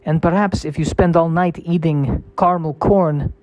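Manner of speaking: menacing mock Russian accent; ominous Russian accent. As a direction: warn them of death in a thick Russian accent. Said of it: "what the accent is really saying".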